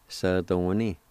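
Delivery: "Sadoni" as one joined word; whole-word pronunciation. Shown as a demonstration. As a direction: model "Sadoni" without syllable breaks. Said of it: "pronounce these words one more time".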